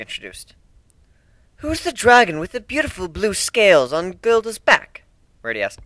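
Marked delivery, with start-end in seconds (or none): 1.6-5.0 put-on curious young voice. A narrator's reading. Reddy asks.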